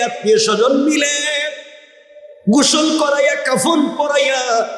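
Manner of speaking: high, ringing sermon chant; impassioned preaching. Acted. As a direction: tell it in a sustained high preacher's cry. Preacher's high-pitched narration.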